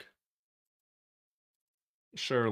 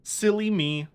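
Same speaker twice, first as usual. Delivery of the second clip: pitched up, playful self-scolding; high silly voice; 8 semitones higher than usual. Shown as a demonstration. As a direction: squeak it out in a silly way. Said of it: "Oopsie poopsie".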